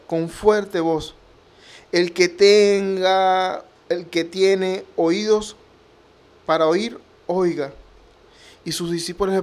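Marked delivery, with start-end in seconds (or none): 1.9-7.7 strong voice. Retold or imitated. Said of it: "decían con fuerte voz".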